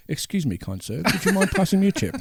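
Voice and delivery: posh English seagull. Retold or imitated. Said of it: "the seagulls would be like".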